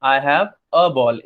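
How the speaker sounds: "a" said as a short "uh" sound, slowly; slow demo with "a" reduced to "uh"; weak a. Shown as a demonstration. Teacher repeating the weak "uh" for students. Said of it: "ज्यादातर बोलते हैं".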